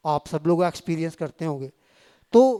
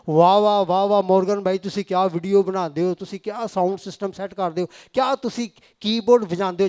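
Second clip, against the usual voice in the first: mock gushing praise. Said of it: "ایک مثال دے رہا ہوں".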